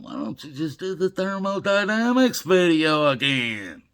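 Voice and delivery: a playful mimic of his son nagging; imitating his son. Retelling his son's suggestion in a mild mock son voice. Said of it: "my son telling".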